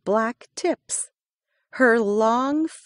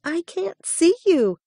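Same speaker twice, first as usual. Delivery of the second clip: little hare voice; 10 semitones higher, 4 dB louder than usual. A narrator's reading. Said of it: "Little Hare said".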